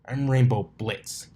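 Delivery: slow, loud cocky intro; defiant. Acted. Colt answering Dash, loud cocky reply. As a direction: say your name like a challenge.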